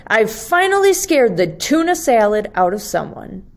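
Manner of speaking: quick, excited "finally" from the little monster; cheering monster. Acted. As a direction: rush it out like he finally won. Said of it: "cheered Leonardo".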